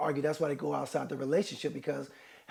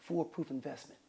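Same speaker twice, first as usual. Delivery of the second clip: smooth hustler pitch; 5 semitones lower, 13 dB quieter, faster than usual. Pretend. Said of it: "If I say".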